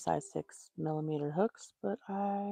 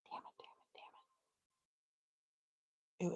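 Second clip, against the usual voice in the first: whispered curses under the breath, much softer; frustrated whisper; 14 dB quieter, faster than usual. Real, not acted. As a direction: hiss the curse to herself in frustration. Frustrated over lost hook.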